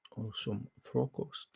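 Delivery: frokost said the Danish way; Danish word. Shown as a demonstration. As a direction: give frokost its Danish sounds. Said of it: "as they say in Denmark".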